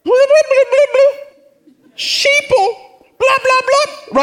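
very high, dismissive blah-blah voice; mocking Fox News viewer. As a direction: brush them off in a silly high voice. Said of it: "the Fox News person looks at the C N N person like".

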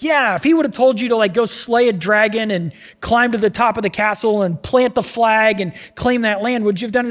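fast, high, pushing the point; eager coaxing. Acted. Servant pressing Naaman, fast and eager. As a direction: rattle it off to persuade.

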